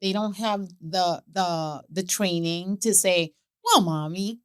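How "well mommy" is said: lightly voiced toddler, louder at the end; mock toddler. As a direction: play a little kid lecturing Mommy. Imite un bambin qui explique.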